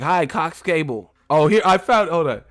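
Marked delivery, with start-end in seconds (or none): 0.0-1.1 lightly voiced boxer; a hint of the boxer reading a promo; Mike Tyson. Streamer proving he said it, light boxer impression. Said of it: "He's like".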